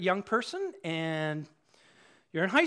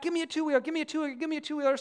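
mildly whiny repeated begging, pitched up; nagging child; 4 semitones higher, much faster than usual. Acted. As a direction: lightly imitate a kid pestering mom. Child keeps coming back nagging.

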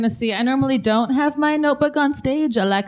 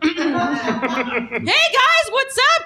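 high, timid, hesitant voice; a mime with no confidence; insecure mime; 10 semitones higher, slower than usual. Pretend. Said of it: "an impression of a mime whose lack of self-confidence".

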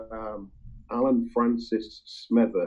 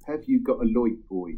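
1 Norfolk accent. Shown as a demonstration. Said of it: "I can mimic, a little bit".

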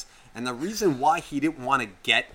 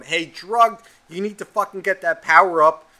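louder, higher mock kid call; imitated kid gamer; 5 semitones higher, 7 dB louder than usual. Kid calls out his gamer tag, imitated shout. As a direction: call out like a pushy kid teammate.

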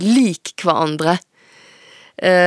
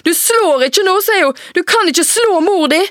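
much higher, louder, frightened warning; alarmed mother; 12 semitones higher, 4 dB louder than usual. Acted. Mother shielding herself from her daughter, frightened and loud. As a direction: hold her off in panic.

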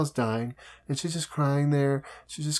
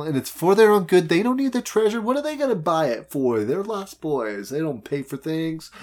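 Hook impression; 4 semitones higher than usual. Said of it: "he's like".

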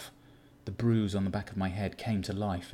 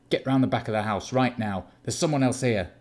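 urgent shout; 3 semitones higher, 7 dB louder than usual. Acted. Urgent warning in a dream.

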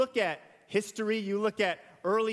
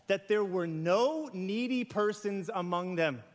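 scripture reading. Acted. Reads scripture aloud.

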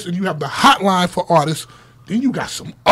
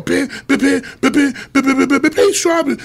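higher-pitched, rapid repeated syllable; imitated record noise; 5 semitones higher than usual. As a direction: mimic a record playing over and over. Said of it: "The whole time the record's on".

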